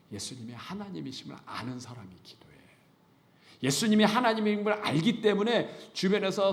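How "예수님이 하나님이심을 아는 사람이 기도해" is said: hushed conviction. Real, not acted. Emphatic whispered conviction.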